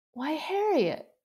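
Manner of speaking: a grandmother wounded by the words; sad voice. Acted. Grandmother saddened by her granddaughter's lie, sad voice. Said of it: "said in a sad voice".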